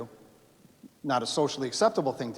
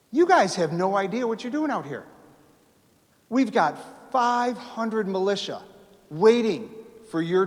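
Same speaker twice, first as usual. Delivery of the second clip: urgent warning; 5 semitones higher, 4 dB louder than usual. Retold or imitated. Revere warns his captors.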